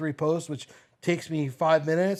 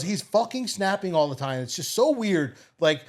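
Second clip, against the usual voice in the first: mock teen daughter; 4 semitones higher, 3 dB louder than usual.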